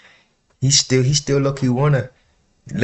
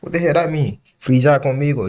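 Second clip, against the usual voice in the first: puzzled; 3 semitones higher than usual. Real, not acted. Puzzled by unknown slang.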